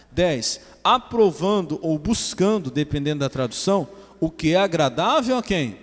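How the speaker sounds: loud, emphatic verse-by-verse reading; preaching. Real, not acted. Pastor expounding scripture to his congregation, forceful preaching. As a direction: drive each verse home to the congregation.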